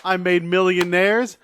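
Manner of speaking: a touch of acted anger, building; mild promo rant. Wrestler railing against the millionaires, mildly heated. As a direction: push it harder like a wrestler's promo.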